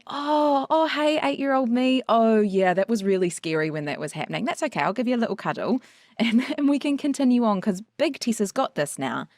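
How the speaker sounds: put-on gently soothing an eight-year-old; tender talk to child self. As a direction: comfort your younger self like a parent. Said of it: "And going".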